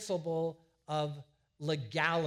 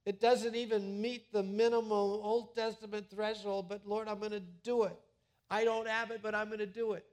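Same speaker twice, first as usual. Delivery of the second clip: believer's prayer; 5 semitones higher, 4 dB louder than usual. Retold or imitated. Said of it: "you say".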